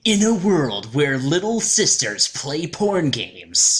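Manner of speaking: slow, dramatic mock trailer voice; hammed-up trailer narrator; movie trailer narration. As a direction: intone it slowly like a trailer opening.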